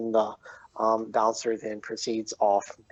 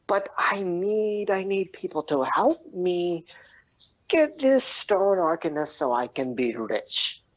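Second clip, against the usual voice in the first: rallying plea; 9 semitones higher than usual. Acted. Bullywug begs the tavern for help, excited. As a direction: plead high, then wail the name long. Bullywug rallies room, ends with cry.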